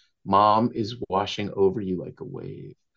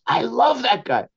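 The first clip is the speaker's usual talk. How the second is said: much higher, gushing I love that guy; gushing fan; 12 semitones higher, 4 dB louder than usual. Retold or imitated. Father telling his daughter about the poet, gushing high. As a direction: squeal it like a delighted fan. Retelling own enthusiastic reply.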